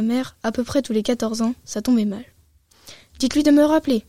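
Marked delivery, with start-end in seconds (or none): 3.2-4.0 insistant, plus fort. Acted. Fils insiste au téléphone.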